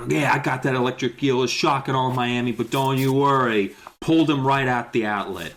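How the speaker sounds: put-on a light swaggering Boston accent; mock Boston accent. Kid explorer bragging about the eel, light Boston accent. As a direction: brag it in a half-hearted Boston voice. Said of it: "easier to do an accent".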